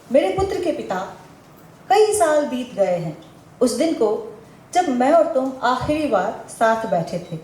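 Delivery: measured poetic address; poem recitation. Real, not acted. Poet addresses her son's father, measured recitation. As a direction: recite it as verse addressed to an absent partner, pausing between phrases.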